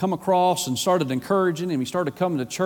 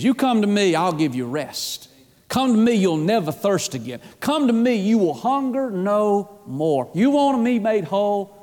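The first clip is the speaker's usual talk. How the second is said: fervent invitation in a raised preacher's pitch; impassioned preaching; 5 semitones higher than usual. Acted. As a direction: call them to come, drawing out key phrases.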